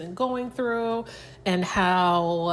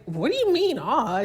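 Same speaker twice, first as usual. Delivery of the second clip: higher-pitched mock bafflement; confused; 5 semitones higher than usual. Husband puzzled by his wife's "aw", imitated confusion. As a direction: imitate a puzzled husband questioning her reaction. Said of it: "he's looking confused, like".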